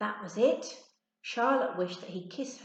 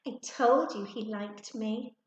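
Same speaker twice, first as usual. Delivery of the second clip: smug; 2 semitones higher, 4 dB louder than usual. Acted. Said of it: "said smugly".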